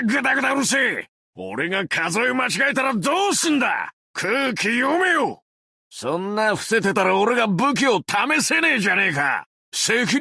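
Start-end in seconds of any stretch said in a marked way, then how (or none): 0.0-5.4 irritated shout. Acted. Snaps at chatter.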